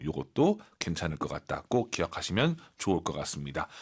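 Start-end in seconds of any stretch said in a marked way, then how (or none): none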